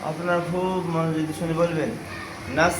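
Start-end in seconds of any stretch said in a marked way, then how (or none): 2.5-2.7 "নাস" as one separate syllable; detached teaching syllable "নাস"; broken-up syllable. Shown as a demonstration. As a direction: say "নাস" alone, holding the final s. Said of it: "আমি এখন ভাঙা ভাঙা উচ্চারণ করব".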